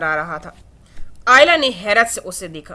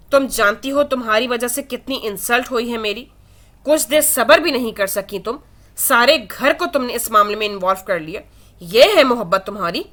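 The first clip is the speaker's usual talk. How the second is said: harsh and angry. Acted. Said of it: "لہجہ ہنوز سخت اور غصے سے بھرپور".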